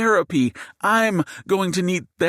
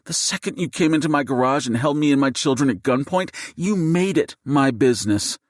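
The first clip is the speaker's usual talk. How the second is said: much higher, louder, seething wife facing a gunman; seething fury; 9 semitones higher, 3 dB louder than usual. Acted. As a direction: hurl the words at him, voice pitched way up. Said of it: "Jade's seething voice".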